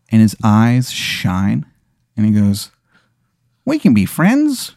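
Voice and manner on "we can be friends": high, slow wizard in a bad Chicago accent; slow, hammed-up Chicago accent, pitched way up; terrible Chicago accent. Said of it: "a terrible accent".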